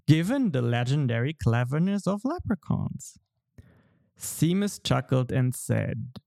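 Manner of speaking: storytelling voice. Acted. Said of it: "my best storytelling voice".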